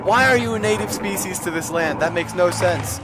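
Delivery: high, loud complaint; exasperated protest. Real, not acted. Gamer to game creature, exasperated high protest.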